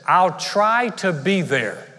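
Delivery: "I'll try to be there" drawn out slowly, vague; noncommittal. Shown as a demonstration. Pastor mimicking a friend dodging moving day, slow and vague. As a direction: promise nothing. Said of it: "If someone says".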